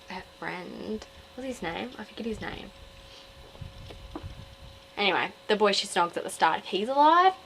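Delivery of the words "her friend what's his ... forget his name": muttering. Real, not acted.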